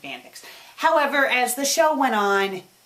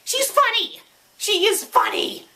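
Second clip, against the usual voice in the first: higher, excited and gushing; squealing fan excitement, pitched up; 3 dB louder than usual. Real, not acted. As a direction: rave about the voice you love. Defending the computer voice.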